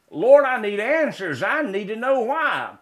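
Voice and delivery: indignant plea. Acted. Frustrated believer pleading with God, indignant. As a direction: demand an answer from the Lord. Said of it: "My indignant reply".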